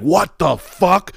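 high, drawn-out mock astonishment; jaw-dropped disbelief. Porn directors reacting to the film, stunned. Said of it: "their jaws hit the ground".

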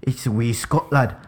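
playful mock Scottish accent. Co-host asked for Scottish, mock Scottish accent. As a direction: try on a wee Scottish lad's accent. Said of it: "I wanted to get a Scottish one".

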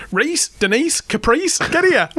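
high mock yell; yelling at kids. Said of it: "this woman screaming at her".

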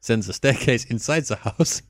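reading a review in a put-on French accent. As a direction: read it like the Frenchman from last week. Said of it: "warm up the French accent again".

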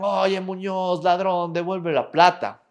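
remedo de grito, sostenido y sin mucha fuerza; grito imitado. Retold or imitated. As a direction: imita a chicos que gritan de lejos, a media voz. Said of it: "de otro curso que gritan". (grito burlón contenido)

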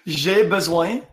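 "J'ai besoin" modelled in French; French pronunciation demo. Shown as a demonstration. Teacher giving a learner "J'ai besoin" to repeat in French. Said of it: "say it to me".

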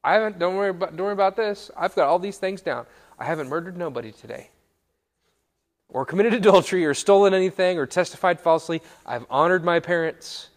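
high, loud, breezy self-assurance; cocky young man. Acted. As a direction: play an overconfident young man waving off concern. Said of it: "the young man is like".

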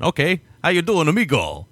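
a hint of a lazy Hispanic accent; mock Hispanic accent. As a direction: toss it off like a hammy Hispanic character. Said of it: "it sounds Hispanic".

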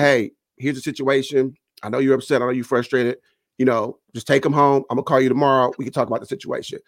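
calm voice, imitated. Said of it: "I just talked to her in a calm voice".

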